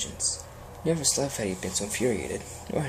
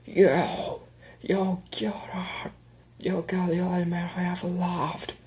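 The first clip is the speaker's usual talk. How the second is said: furious accusation; 7 semitones higher, slower than usual. Acted. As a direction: hurl it at her in fury. Widower rages at the queen.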